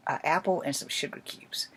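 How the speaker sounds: hushed whispered aside; soft conspiratorial whisper. Real, not acted. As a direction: say it under your breath like a secret.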